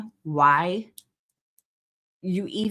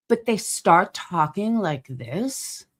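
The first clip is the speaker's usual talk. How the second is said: slow, drawn-out condescending tone; slightly snobbish put-on delivery; slower than usual. Shown as a demonstration. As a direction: imitate a pretentious talker, slowly, ending on a rise. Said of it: "Like, condescending".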